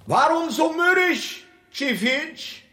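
high teasing call; bright lilting tease to the servant; mock cheerful question. King teasing his gloomy servant, high and mocking.

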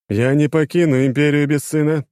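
sudden angry shout; breaking into a shout. A narrator's reading. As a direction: snap into a yell. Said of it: "князь сорвался на крик". (сорвался на крик)

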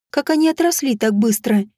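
plain reading voice

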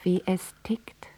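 whisper. Real, not acted. Daughter hushing her father on the phone, whispering. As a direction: lean in and whisper.

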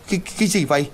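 startled, stammering high cry; panicked. A narrator's reading. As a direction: gasp it out in sudden fright. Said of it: "liền hoảng hốt". (hoảng hốt lắp bắp)

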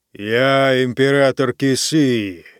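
slow, loud and solemn proclamation; booming declaration. Acted. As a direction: announce it to the whole hall. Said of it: "громогласно объявил он".

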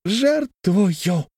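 high, drawn-out, weighty; high measured proclamation; deliberately spaced. A narrator's reading. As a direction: lay the word down slowly. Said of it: "проговорил с расстановкой".

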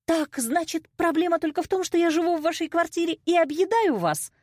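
high, heated challenge; indignant retort. A narrator's reading. Daughter challenging mother about living at home, indignant. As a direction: throw the accusation back at a high pitch.

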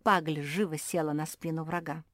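ordinary delivery, nothing marked

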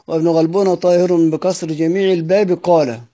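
verse recital. Shown as a demonstration. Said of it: "كلمة قال تعود على ابن غلبون".

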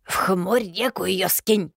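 slow, bossy crone order; commanding witch. A narrator's reading. Yaga orders Solovey to dump the body, slow and bossy. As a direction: order it like an old hag.

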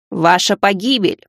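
slow, ominous gargoyle voice; doom it out slowly. Acted.

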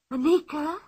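put-on excited boy calling out; Tommy's voice. A narrator's reading.

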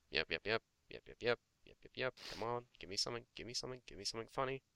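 soft muttering to himself. Real, not acted. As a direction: mumble while scrolling. Muttering while scrolling.

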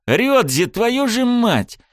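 high, slow drawn-out swearing; blinded hero cursing his friend, exasperated; angry curse. A narrator's reading. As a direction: curse him out, dragging it.

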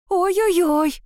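high, loud wail of terror; terrified cry. A narrator's reading. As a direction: cry out in panic, pitched high. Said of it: "в ужасе закричала я".

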